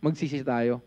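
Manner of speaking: hushed solemn call to repent. Real, not acted.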